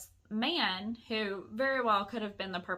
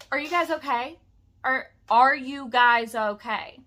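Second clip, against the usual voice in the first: loud, raised mimicry; mock pestering; 3 semitones higher, 11 dB louder than usual. Man keeps asking women if they're fine, loud mimicked pestering. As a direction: hammer the question out, imitating a pest. Mimics man's relentless question.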